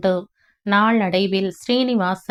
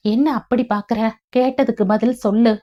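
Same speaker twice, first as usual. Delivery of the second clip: scolding; 2 semitones higher, faster than usual. Acted. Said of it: "என அதட்டவும்".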